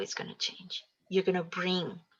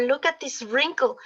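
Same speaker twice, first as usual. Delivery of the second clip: mock complaint; 5 semitones higher than usual.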